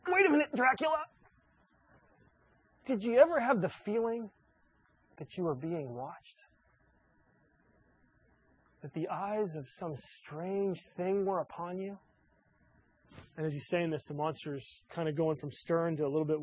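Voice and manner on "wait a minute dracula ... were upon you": a cartoon rabbit's teasing voice, pitched up at first; Bugs Bunny. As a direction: play Bugs spooking the monster, slowing down on the eerie part. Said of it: "And Bugs says".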